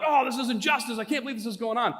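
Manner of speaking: mildly hammed-up indignation; acting out worked-up disbelief; retold angry excitement. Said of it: "I get all angry and excited".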